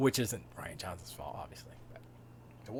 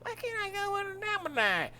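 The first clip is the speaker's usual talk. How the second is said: put-on much higher whining kid; young Luke whines to Uncle Owen about going; whiny Luke; 3 dB louder than usual. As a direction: whine like an annoying teen. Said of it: "he was a little annoying".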